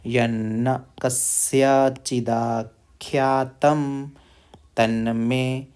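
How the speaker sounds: कस्यचिदाख्यातं drawn out very slowly; slow recitation. Shown as a demonstration. Teacher recites the long word slowly for learners. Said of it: "slow recitation of verse".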